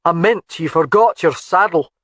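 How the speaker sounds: exasperated. A narrator's reading. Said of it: "couldn't hide his exasperation".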